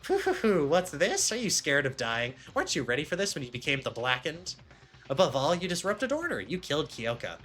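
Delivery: lightly voiced villain, high on the chuckle and jumps; mock the condemned with swooping emphasis; taunting villain mascot.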